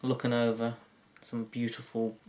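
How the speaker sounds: normal talking voice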